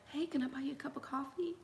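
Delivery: whispered pickup line; smooth offer. Retold or imitated. The man at Starbucks asking her out, whispered. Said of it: "he was like".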